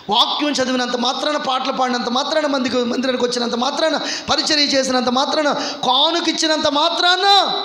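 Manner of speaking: building sermon cry, rising then slowing; preaching at full force. Acted. Pastor exhorts the congregation toward baptism, building to a shout. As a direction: drive the list home to the congregation.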